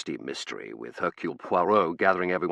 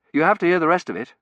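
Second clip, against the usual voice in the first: eager insistence; 10 semitones higher, 8 dB louder, faster than usual. Acted. Insists on reading on.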